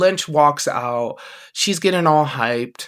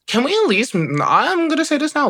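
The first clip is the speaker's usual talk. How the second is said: excited plea; 11 semitones higher than usual. Real, not acted. Pleading suggestion to bookers.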